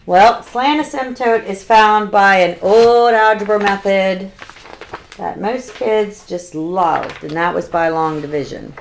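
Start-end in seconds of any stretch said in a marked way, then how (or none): 5.2-7.2 dry sarcasm, drawn out on "loved"; sarcastic. Real, not acted. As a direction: say it slowly with understated, mock fondness. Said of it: "Yes, I'm being sarcastic".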